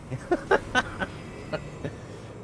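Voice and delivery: high squeaky giggle; squeaky laugh. Real, not acted. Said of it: "that's my squeaky voice".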